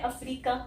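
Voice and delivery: 'अफ्रीका' as a-free-ka with long 'ee'; wrong pronunciation. Retold or imitated. Teacher sums up people's mistake, mispronounced 'अफ्रीका'. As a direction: imitate 'अफ्रीका' with plain 'a' and long middle. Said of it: "यहाँ पे बड़ी ई कर देते हैं".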